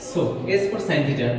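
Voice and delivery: very slow, every word spaced out; slow dictation. Shown as a demonstration. Teacher dictating the first formula, very slowly. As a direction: spell it out slowly so students can write. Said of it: "লিখো যে".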